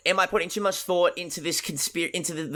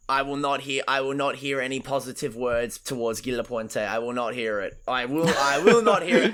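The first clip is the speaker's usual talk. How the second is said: mock stubborn; 3 semitones lower than usual. Real, not acted. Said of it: "I refuse".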